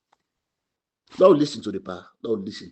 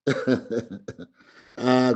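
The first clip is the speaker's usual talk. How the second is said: laugh. Real, not acted.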